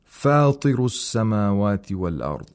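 measured tajweed recitation; Quran recitation. Shown as a demonstration. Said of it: "recitation in terms of the rules".

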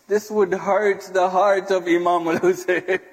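real choked-up sorrow; breaking down. Real, not acted. Preacher breaks down weeping.

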